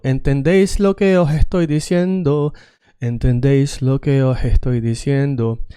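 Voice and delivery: "os estoy" with an H for the S of os; aspirated S accent. Shown as a demonstration. Teacher playing with accents, S softened to H. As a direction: let "os" melt into "oh-hestoy". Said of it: "I'm playing with different accents".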